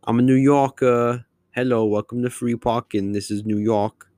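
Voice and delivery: a playful, slightly exaggerated New York accent; New York accent done for a laugh, half-hearted; mock New York accent. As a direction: jokingly try on a New Yorker voice. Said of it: "I've been workshopping my New York accent".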